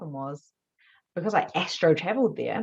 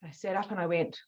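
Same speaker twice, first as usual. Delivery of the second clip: normal talking voice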